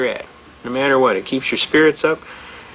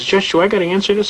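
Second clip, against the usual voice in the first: lightly voiced prosecutor, pitched higher; higher mock complaint; complaining prosecutor; 6 semitones higher than usual. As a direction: imitate a put-upon lawyer appealing to the judge.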